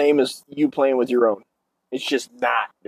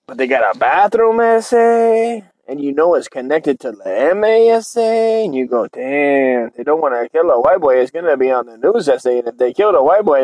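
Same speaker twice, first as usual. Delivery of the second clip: lightly voiced Chicano storyteller; mock Chicano gossip; Chicano homie. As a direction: stretch it into a singsong homie lilt.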